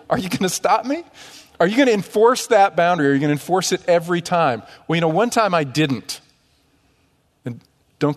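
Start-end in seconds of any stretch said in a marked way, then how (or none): 0.1-4.6 a hint of a defiant toddler, pitched higher; lightly voiced two-year-old testing you. Toddler daring the parent over the stove, light defiant voice. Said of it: "two-year-old looks at you and goes like this".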